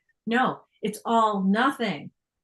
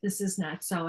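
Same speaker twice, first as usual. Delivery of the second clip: gentle forgiveness. Acted. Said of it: "forgiveness looks on things and with gentleness and says".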